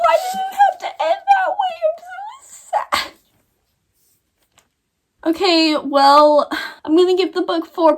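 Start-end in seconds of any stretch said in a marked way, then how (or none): 0.0-1.7 put-on much higher, fast, whiny toddler wail with a laugh; mock tantrum whine. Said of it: "I'm gonna throw a temper tantrum". 1.9-3.1 put-on much higher, slow and much softer childish whimper; mock sad whimper. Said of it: "I'm gonna throw a temper tantrum".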